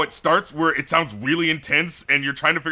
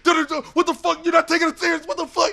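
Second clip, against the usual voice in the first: mock arguing; 12 semitones higher than usual.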